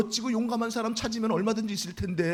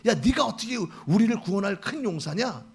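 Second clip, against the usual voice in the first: lightly voiced sneering taunt; a hint of jeering; mocking neighbors; 4 dB louder than usual. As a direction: scoff at him like a neighbor. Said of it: "이렇게 비웃을 것이고".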